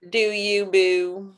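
put-on playful Baltimore accent, loud; sassy Baltimore drawl on do you boo. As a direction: toss it off like a Baltimore girl. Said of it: "That was Desiree's accent".

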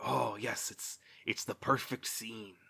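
breathy mock-romantic whisper; hushed, swooning parody of the moment. Reviewer mocking the moonlit scene, in a soft whisper.

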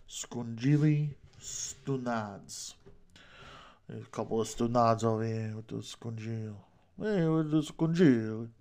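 lightly hammed Italian New Yorker accent. Host joking with Italian slang, mock New York accent. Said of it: "I'm doing the New York accent".

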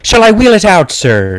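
high-pitched, eager Irish lilt; Irish accent. Acted. Guest offering to unveil his gift, Irish accent. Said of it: "It is an Irish accent".

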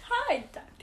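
put-on high American-accented Dalek greeting, laughing; mock American accent. Co-host imitating the Dalek's entrance, giggly American accent. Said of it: "make the Dalek have an American accent".

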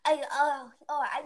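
lightly imitated Asian accent; a hint of a thick Asian accent. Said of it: "little thick Asian accent".

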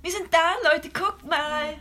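excited. Acted.

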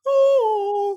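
hammed-up Bane impression through laughter; mock Bane, cracking up. Redoing the video line as Bane, laughing. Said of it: "but say it in, in Bane's voice".

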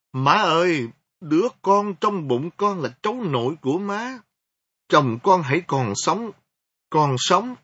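high, loud tearful begging; crying plea. Acted. Kneeling daughter-in-law begs her mother-in-law, crying loudly. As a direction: plead through tears on your knees. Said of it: "Tôi khóc và tôi nói".

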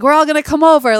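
high, loud excited bad Jersey accent. Sketch comic's Italian family, mock Jersey accent. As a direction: belt it like a Jersey aunt, badly. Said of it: "my Jersey accent isn't very good".

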